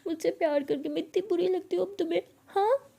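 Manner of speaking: acted hurt, rising to a questioning "हाँ"; tearful accusation. Bhavna confronts Pihu about regretting their love, tearful accusation. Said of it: "ऐसे कि बहुत रो रही थी".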